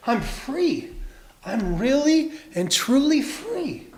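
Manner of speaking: high, drawn-out delight; storybook triumph in a high voice; elated relief. A narrator's reading. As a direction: stretch out the joy of being free. Tommy escapes the net.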